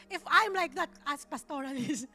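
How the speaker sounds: half laughing, half crying, voice catching; tearful laughter breaking into the words; laughing through tears. Real, not acted. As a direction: laugh and cry at once as you admit it.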